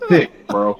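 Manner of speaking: cracking up mid-sentence; real laughter breaking in; laughing. Real, not acted. Laughing at the huge bowl.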